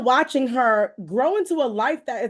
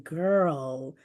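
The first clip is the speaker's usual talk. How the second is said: put-on knowing girl; 7 semitones lower, 5 dB quieter than usual. God's voice imitated.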